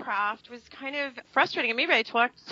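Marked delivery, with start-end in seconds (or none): 1.7-2.4 Brooklyn accent. Real, not acted. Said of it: "That's my real accent".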